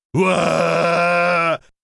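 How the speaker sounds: long, ragged, high, rough, drawn-out startled scream. A dragon in a shed screams back as a girl pulls the door open: screaming. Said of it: "screamed the dragon".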